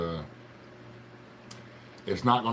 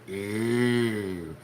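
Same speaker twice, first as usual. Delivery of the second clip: mock posh disgust; much slower than usual. Showing his dessert coffee, mock snooty disgust. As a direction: play the fancy coffee snob. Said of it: "gotta stick your pinky out".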